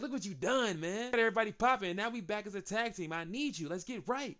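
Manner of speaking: rally your partner, mock excited; mock pep talk; hyped imitation.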